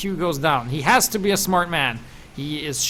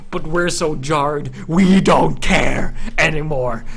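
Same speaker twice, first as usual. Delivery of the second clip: deadpan robotic; 6 dB louder, slower than usual. Pretend. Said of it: "We're a machine".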